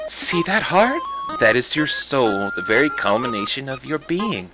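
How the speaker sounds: lightly voiced flower; a hint of the sweet flower; Flowey. Flower explaining the soul, lightly voiced. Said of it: "my superb voice acting".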